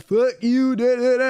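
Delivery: retold screaming. Passenger yelling at the neighbours' house, mock yell. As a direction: imitate a shouted rant dissolving into da-da. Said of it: "he was just screaming at their house".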